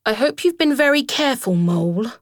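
high, worried plea; anxious Rat. A narrator's reading. Rat worrying about Mole, mildly anxious and high. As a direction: fret over her friend. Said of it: "said Rat anxiously".

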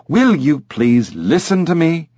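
high, insistent parrot plea; exasperated demand. Acted. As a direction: demand attention, pitched high.

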